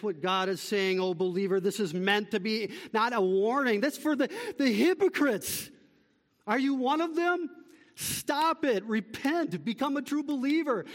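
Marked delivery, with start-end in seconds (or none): 3.8-10.9 high-pitched urgent call to repent; urgent rebuke. Real, not acted. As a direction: rebuke them with raised pitch. Rebuking hypocrites, urging repentance.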